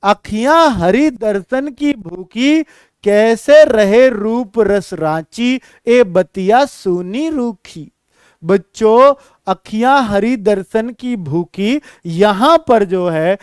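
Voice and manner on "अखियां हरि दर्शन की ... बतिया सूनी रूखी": slow, longing, drawn-out chant; sing-song the verse full of longing; soulful recital. Shown as a demonstration. Teacher shows students how to feel the verse, slowly chanted. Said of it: "देखो जरा".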